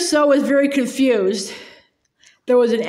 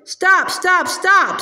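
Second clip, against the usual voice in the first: urgent shout; 6 semitones higher, much slower than usual. A narrator's reading. Doctor Cornelius breaks up the quarrel, raised urgent shout.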